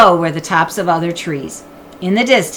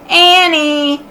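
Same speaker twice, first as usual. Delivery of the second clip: calling name; 10 semitones higher, 6 dB louder than usual. Acted. Jack calls.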